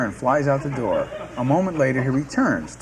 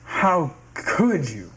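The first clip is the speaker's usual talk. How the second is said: wounded; 2 semitones higher, much slower than usual. Acted. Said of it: "Stanley is wounded".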